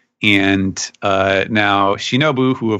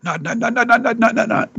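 sing-song nods; 14 semitones higher than usual. Retold or imitated. Mimicking silent repeated nodding.

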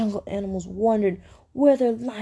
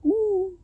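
high, drawn-out "ooh"; a feeble try at roaring; failed roar attempt; 8 semitones higher than usual. A narrator's reading. Lion tried to roar for Meerkat, high feeble "ooh".

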